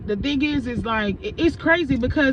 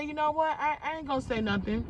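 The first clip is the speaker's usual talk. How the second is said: softly retold decision, pitched up; restrained resolve; 4 semitones higher, 8 dB quieter than usual. Woman deciding not to confront her coworker, restrained. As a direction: hold it back, softer.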